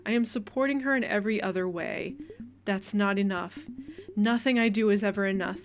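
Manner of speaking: loud, bitter shouting back at her mother; shouting match with her mother, loud and angry. Acted. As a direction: yell it, fed up and hurt. Daughter fighting with mother.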